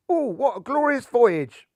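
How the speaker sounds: rapturous postcard voice. Acted. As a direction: gush about the trip.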